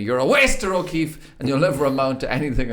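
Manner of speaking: mild mock yell from a furious teacher; imitating a teacher screaming at a pupil. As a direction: bark it like a teacher losing it. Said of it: "she screamed at me".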